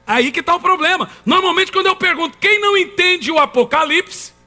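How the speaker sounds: high-pitched, insistent pulpit delivery; emphatic preaching. Acted. Preacher exposing the devil's trick to congregation, emphatic preaching. Preacher drives the point home.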